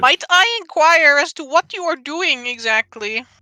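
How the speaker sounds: high-pitched little goblin creature voice. Voicing a little goblin in a cage greeting the players: goblin voice. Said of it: "the little goblin, and he says".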